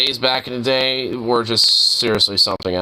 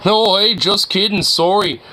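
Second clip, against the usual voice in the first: high, louder sheepish apology; mock backpedal; 8 semitones higher, 4 dB louder than usual. Player mocks the driver backing down, high and sheepish. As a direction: ham up a sudden climb-down.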